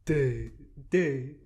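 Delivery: Pegasus voice. Acted. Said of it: "I can't do a fucking Pegasus voice".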